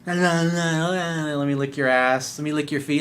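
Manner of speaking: slow, drawn-out mock servility; mock groveling plea. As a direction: crawl at her feet, hammed up. Mocking a groveling man.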